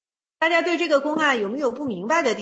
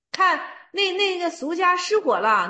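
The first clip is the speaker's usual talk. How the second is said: excited retelling; 5 semitones higher than usual. Retold or imitated. Teacher re-enacts the fire scene.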